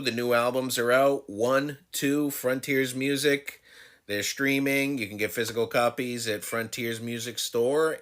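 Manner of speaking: host's sign-off promo read; podcast plug. Real, not acted. Host's closing album plug.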